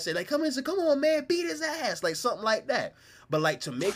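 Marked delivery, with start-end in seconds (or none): 0.3-2.0 high mock cheering of a mother; mom cheering at TV. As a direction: egg on the good guy. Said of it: "my mom will cuss at that".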